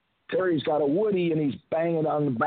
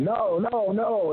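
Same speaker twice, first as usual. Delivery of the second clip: high, panicky mock protest; Coco; 8 semitones higher, slower than usual. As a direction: imitate a frightened man refusing. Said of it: "now Coco's getting scared".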